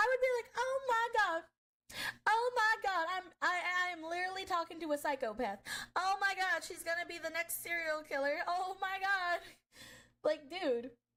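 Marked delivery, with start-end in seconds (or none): 0.6-9.4 words spoken through barely stifled laughter. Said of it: "trying to hold myself back from laughing".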